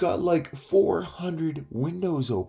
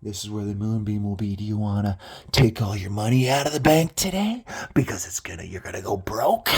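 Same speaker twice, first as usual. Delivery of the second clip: imitated Don; 5 semitones lower than usual. Don's imagined pitch to Dave.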